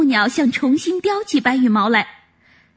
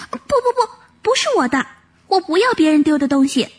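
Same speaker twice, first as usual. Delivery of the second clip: firm argument; 5 semitones higher, faster than usual. Acted. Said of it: "挺直了脖子争辩说".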